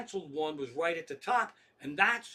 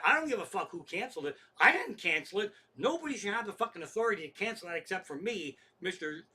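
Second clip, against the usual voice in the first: retold irate rant; indignant customer tirade, hammering the key words; going nuts; 2 semitones higher than usual. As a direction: rant like a customer at the end of his rope. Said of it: "Now I'm fucking nuts".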